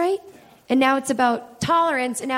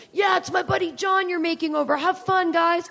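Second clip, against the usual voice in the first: friendly cop; 4 semitones higher than usual. Retold or imitated. The suddenly tolerant cop hugs them.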